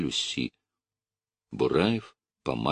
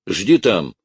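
raised-voice order; shout; 3 semitones higher, 7 dB louder than usual. A narrator's reading. Officer dismisses his orderly, shouting. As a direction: send the orderly away loudly. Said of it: "крикнул на денщика Бураев".

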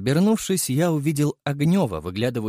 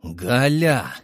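stern call; 4 dB louder than usual. A narrator's reading. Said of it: "строго сказал я".

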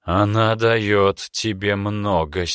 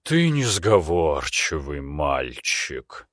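rueful demon; 3 semitones lower, much slower than usual. Acted. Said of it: "сокрушённо покачал демон".

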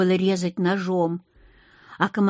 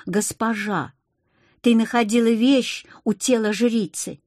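"ты находила вещь" as a statement, falling at the end; stated, not asked; 2 semitones higher than usual. A narrator's reading. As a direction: say "ты находила вещь у тела жрицы" as settled fact. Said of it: "Они не спрашивали, а словно бы утверждали".

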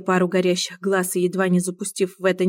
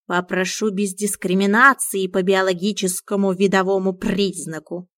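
proud; 4 dB louder than usual. Acted. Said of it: "гордо задрал нос Миун".

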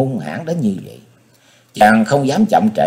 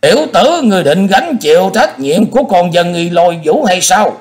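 much higher, startled question; surprised; 9 semitones higher, 4 dB louder than usual. Acted. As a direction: sound caught off guard. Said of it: "với giọng ngạc nhiên". (giọng ngạc nhiên)

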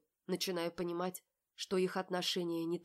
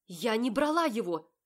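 indignant shout; 5 semitones higher, 10 dB louder than usual. A narrator's reading. Polly pushes him away.

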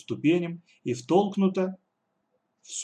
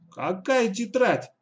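slow, much higher, wide-eyed playing dumb; feigned innocence; 10 semitones higher, 3 dB louder, slower than usual. Katya playing dumb with the kidnappers, slow, high feigned innocence. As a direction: play innocent, drawn out and high. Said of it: "Катя недоумённо захлопала ресницами".

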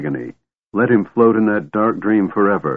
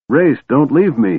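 higher-pitched desperate cry; screamed plea; 6 semitones higher, 4 dB louder than usual. A narrator's reading. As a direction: cry out as if being abandoned. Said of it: "he screamed".

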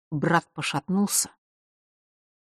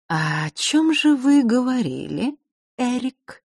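insinuating; 8 semitones higher, slower than usual. A narrator's reading. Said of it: "вкрадчиво спросила она".

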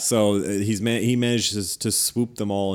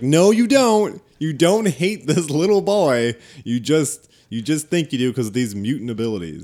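earnest Franklin Richards; 3 semitones higher, 4 dB louder than usual. Retold or imitated. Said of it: "Franklin Richards is like".

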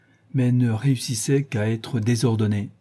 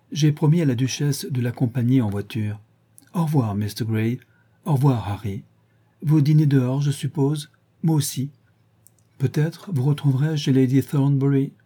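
lightly higher voice for the chattering hostess; a hint of a chattering society lady, pitched up; Lady Henry voiced; 4 semitones higher, 3 dB louder than usual. Hostess chattering at Dorian about music, lightly higher society-lady voice.

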